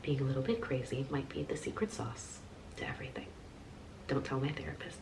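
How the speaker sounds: whispered aside, like a secret; conspiratorial whisper. Acted. Whispering a secret aside to her viewers about being crazy. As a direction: whisper it so the therapist can't hear.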